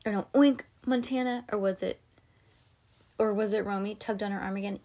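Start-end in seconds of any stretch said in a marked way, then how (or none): 0.3-1.4 pig oink. Acted. Pig noise.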